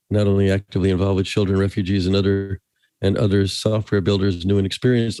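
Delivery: normal talking voice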